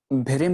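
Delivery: भ्रम misread as "bhirim", i sounds in place of a; wrong reading demo. Shown as a demonstration. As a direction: show भ्रम as bhi-rim, the misreading. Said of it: "नहीं पढ़ा जाएगा".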